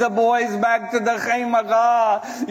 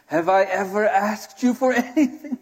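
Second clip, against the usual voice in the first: plea breaking into sobs at the end; tearful plea; faster than usual. Acted. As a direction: beg your brother, then break down crying. Voices Zainab pleading, breaks into sobs.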